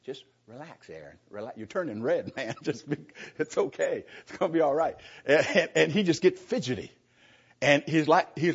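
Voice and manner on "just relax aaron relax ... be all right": soothing. Retold or imitated. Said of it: "I had to pat him on the back".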